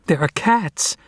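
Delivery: high, urgent shout of alarm. A narrator's reading. Young cat shouting to his family about intruders, high and urgent. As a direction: call out the warning, pitched high. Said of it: "shouted Varjak".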